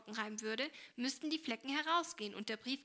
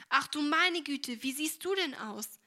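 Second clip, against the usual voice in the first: horrified cry; 4 semitones higher, 7 dB louder than usual. Acted. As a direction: gasp it out in dismay. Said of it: "rief sie entsetzt". (Mutter ruft entsetzt beim Anblick der Tochter, laut und langsam)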